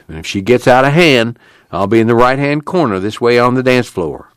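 camp committee leader. Acted.

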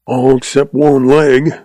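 lightly voiced grumbling old man. Old man answers a young visitor about his leg, grumbling. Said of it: "grumbled the old man".

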